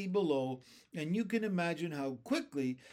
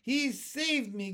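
gasped; 9 semitones higher, 4 dB louder, slower than usual. A narrator's reading. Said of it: "gasped the centipede".

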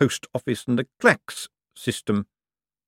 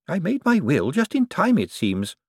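put-on much higher, cackling old woman voice; cheeky old lady; 9 semitones higher than usual. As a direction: play a sharp old dame with no fear. Topsy to Death.

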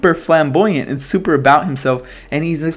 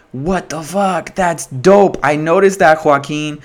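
impressed amazement; 5 semitones higher, slower than usual. Retold or imitated. Re-enacts impressed reaction to the film.

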